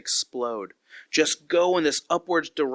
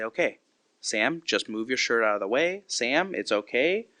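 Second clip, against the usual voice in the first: calm reassuring; 3 semitones lower than usual. Retold or imitated. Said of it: "I have to calm down".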